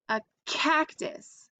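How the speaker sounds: high, slow, delighted reveal of A cactus; excited. Acted. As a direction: present the cactus like a surprise. Teacher presenting picture to kids.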